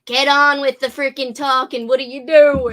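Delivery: mock exasperated yell. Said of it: "You're like".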